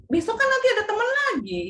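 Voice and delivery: lightly acted high-pitched reassurance; reassuring mother. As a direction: gently coax a child in a lifted voice. Mother consoling crying child, retold.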